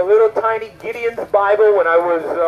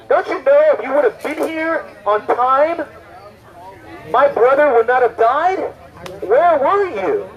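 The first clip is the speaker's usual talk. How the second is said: higher-pitched, acted reproach; reproachful mourner; 4 semitones higher than usual. Grieving sibling questions Jesus at a funeral, mildly reproachful. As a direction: plead and reproach, drawing out the final question.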